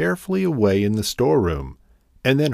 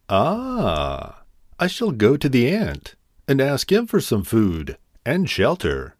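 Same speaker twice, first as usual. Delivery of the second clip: perking up; 4 semitones higher than usual. Acted. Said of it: "declared the grasshopper, perking up".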